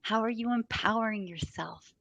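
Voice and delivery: asking dinner guests about their money; eager questioning. Retold or imitated. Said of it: "I have to ask the question".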